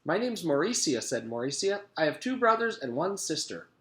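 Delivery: sweet and smooth like a milkshake; a lightly voiced sweet girl; pineapple milkshake voice. A narrator's reading. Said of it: "like a pineapple milkshake".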